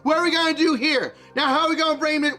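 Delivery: a sneaky sailor voiced with a mild Chinese accent; a hint of a Chinese accent, boastful and scheming; comedic Chinese voice. Holds comedic Chinese character voice.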